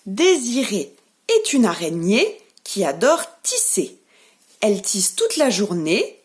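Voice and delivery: put-on lively reading to small children; nursery rhyme reading. Teacher reads a rhyme to the children, lively and playful. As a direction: tell the spider rhyme playfully.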